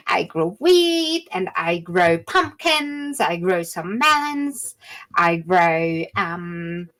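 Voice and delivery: cheerful halfling woman listing her produce; halfling farmer listing crops. Acted. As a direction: count the crops off fondly.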